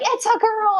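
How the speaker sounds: high-pitched singsong reveal; mock-bright high announcement; retold birth announcement. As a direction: imitate a doctor announcing the baby, voice way up. Doctor's announcement acted out.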